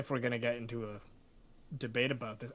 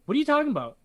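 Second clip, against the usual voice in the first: panicked disbelief; 13 semitones higher, 7 dB louder, much faster than usual. Retold or imitated. Convict panics at lawyer's calm.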